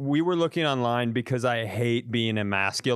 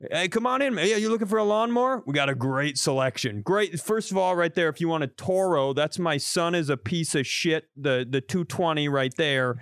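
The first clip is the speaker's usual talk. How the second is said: cheery salesman; 3 semitones higher than usual. Pretend. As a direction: greet the customer like a chipper salesman. Cheery store clerk greeting.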